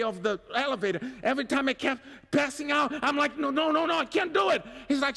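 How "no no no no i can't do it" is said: rising, pleading no no no; panicked protest. Retold or imitated. To the VR guide, a panicked refusal. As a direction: beg to get out of it in mock panic.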